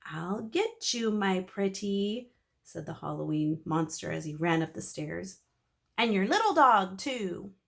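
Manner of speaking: a hint of a wicked witch; fleeing monster vowing revenge; villain threat.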